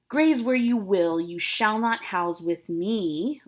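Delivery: dramatic banishment, loud at the start and falling; stern threat. Acted. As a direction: lay down the law as a father, drawing it out. Acted father threatens to disown daughter.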